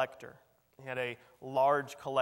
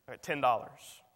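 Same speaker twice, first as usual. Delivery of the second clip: piping up; 7 dB louder than usual. Acted. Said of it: "someone pipes up from the back".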